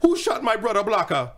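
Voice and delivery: slow put-on Jamaican accent; a hammed-up Jamaican movie line. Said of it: "Try it again, let me see".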